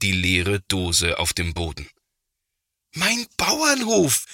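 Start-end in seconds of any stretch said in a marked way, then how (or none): 2.9-4.3 high, slow horrified wail; a child seeing his toy ruined; horrified cry. A narrator's reading. Boy crying out in horror over his toy farm. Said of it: "ruft er entsetzt".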